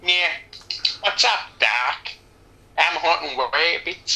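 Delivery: a light, slow cartoon rabbit voice with a hint of a southern twang; Bugs Bunny. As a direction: play a slow, lazy cartoon rabbit, only lightly put on. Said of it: "a Bugs Bunny impression".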